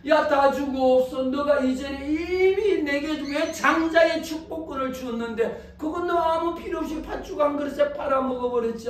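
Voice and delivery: high, emphatic acted scolding; exasperated rebuke. Father rebuking the son who sold his birthright, exasperated.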